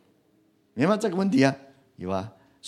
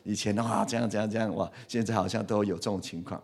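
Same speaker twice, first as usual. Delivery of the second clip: wife's complaint; 7 dB quieter than usual. Retold or imitated. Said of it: "师母都跟我讲".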